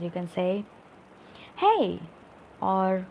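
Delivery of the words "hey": high, loud "Hey"; exclamation. Shown as a demonstration. Teacher giving an example exclamatory sentence, excited exclamation. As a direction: call it out as a demonstrated exclamation. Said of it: "talking about exclamatory sentence".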